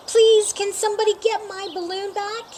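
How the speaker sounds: a mother asking the crowd for help; pleading mother. A narrator's reading.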